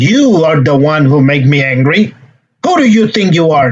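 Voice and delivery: mock accusing outburst, pitch jumping on "who"; aggressive. Shown as a demonstration. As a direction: act out a confrontational challenge. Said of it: "That would be aggressive communication".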